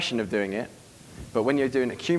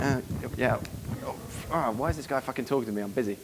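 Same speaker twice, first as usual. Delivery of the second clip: muttered, softer aside of annoyance; reluctant bouncer; 6 dB quieter than usual. Acted. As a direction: grumble it under your breath, put upon. Acted busy bouncer brushing someone off.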